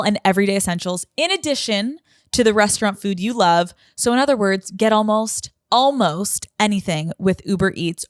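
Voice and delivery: brisk sponsor read, fast in places; upbeat ad read. Acted. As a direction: sell it like a quick radio spot. Host reads Uber Eats ad.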